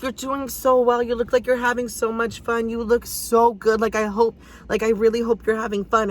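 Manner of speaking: imitating a sweet, excited fan; gushing praise. Customer tipping a dancer, gushing praise.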